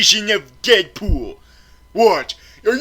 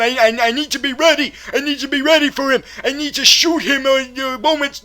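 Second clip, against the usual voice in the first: rushed panicky fast talk; frantic; 3 semitones higher, faster than usual. Acted. Reviewer bracing for Deadpool's attack, rushed and panicky. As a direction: blurt it out in a hurry.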